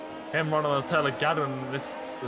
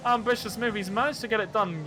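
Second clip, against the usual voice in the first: excited race call; 7 semitones higher than usual. Real, not acted. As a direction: voice jumping up high for the overtake. Live call of an overtake.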